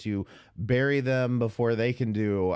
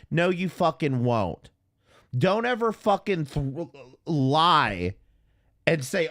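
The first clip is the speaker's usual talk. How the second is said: louder, hard-driving accusations; angry rant; 2 semitones higher, 4 dB louder than usual. Real, not acted. Streamer ranting at Malice about scamming children, angry. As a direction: hammer every charge at her.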